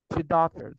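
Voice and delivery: "Predator" mangled the way her students say it, like tutoktor; student mispronunciation. Retold or imitated. Teacher imitating a student's garbled "Predator". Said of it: "some of my students would say".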